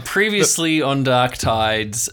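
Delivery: slow, drawn-out announcer read; trailer-voice recap. Acted. Host restarting the recap in announcer voice. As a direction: stretch it out like a trailer.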